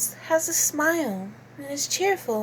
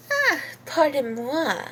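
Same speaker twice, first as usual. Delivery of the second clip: composed British lady after an outburst; Celestia Ludenberg. Acted. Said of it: "Celestia Ludenberg sounds more British".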